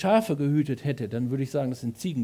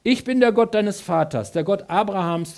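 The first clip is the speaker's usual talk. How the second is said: a touch louder, solemn divine voice; voice of God; 4 semitones higher, 6 dB louder than usual. Acted. Preacher reading God's words to Moses, lightly solemn. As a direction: speak as God announcing himself.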